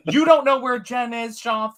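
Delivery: high, loud disbelieving question; mock incredulous challenge. Caller posing as girlfriend's mom challenges him, incredulous.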